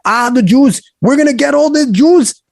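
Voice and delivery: put-on high-pitched caricature of a Nazi accent; mock Nazi accent. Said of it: "I don't know why I gave it that accent".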